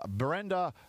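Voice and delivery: slow, careful French accent on "Brenda Dupont". Shown as a demonstration. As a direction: say "Brenda Dupont" slowly the French way, stressing the last syllable. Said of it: "pronounced there in my best French accent".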